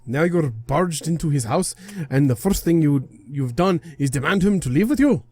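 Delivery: scolding, affronted deity voice; indignant guardian god. Acted. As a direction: berate an intruder like an offended god.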